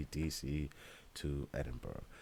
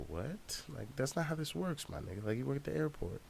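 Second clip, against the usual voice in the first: high-pitched exasperated ranting at the guard; incredulous high mock rant; frustrated rant; 9 semitones higher than usual. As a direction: squeal out the outrage, pitched way up. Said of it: "And I'm like".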